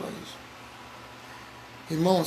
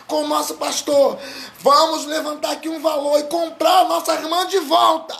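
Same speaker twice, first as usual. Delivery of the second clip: rallying call; 5 semitones higher than usual. Retold or imitated. Members rallying the church.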